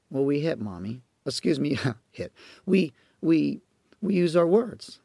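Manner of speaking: put-on small, soft child correcting himself; a quiet little kid, caught and owning up; little boy's voice. Little boy to his mom, soft and sheepish.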